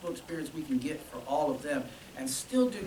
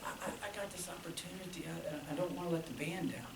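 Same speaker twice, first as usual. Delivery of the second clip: imitating tearful; 10 dB quieter, faster than usual. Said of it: "starts crying".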